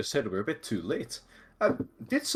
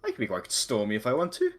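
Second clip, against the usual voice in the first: indignant; 6 semitones higher, 4 dB louder than usual. Acted. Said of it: "angrily puts his hands on his hips".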